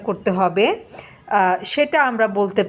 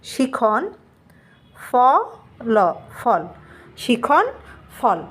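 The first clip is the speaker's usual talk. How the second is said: শিখন ফল said piece by piece with pauses, ফ and ল split apart; spelled out slowly; slower than usual. Shown as a demonstration. Teacher spelling শিখন ফল for students, in slow broken pieces. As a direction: sound out শিখন ফল syllable by syllable for the class. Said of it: "আমি একটু বাংলায় লিখে দেখাচ্ছি".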